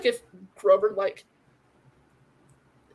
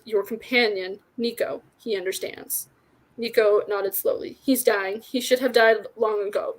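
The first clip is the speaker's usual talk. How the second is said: measured read-aloud with light character acting; story narration. A narrator's reading. Reader shares a favorite fantasy book with listeners, story narration. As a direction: read the tale out clearly and steadily.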